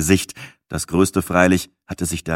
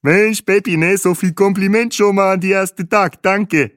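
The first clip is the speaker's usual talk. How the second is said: put-on high, accented voice full of cheer; delighted tour guide; 11 semitones higher, 4 dB louder than usual. A narrator's reading. Guide thanks Peppi for the compliment, delighted and high-pitched. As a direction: gush thanks in a raised guide voice. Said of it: "lachte Bahe".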